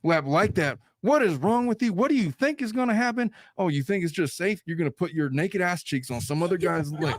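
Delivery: high-pitched, incredulous mock telling-off; acted exasperated rant; forceful scolding. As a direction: berate your partner as an outraged husband. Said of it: "would he forcefully declare".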